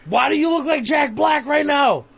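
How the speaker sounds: amused outburst. Real, not acted. Co-host laughing at a face.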